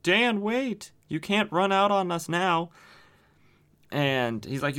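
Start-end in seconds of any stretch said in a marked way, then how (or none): 0.0-2.7 higher-pitched imitation of calling someone back; retold urgent call. Calling down to the fleeing hero, retold urgent call.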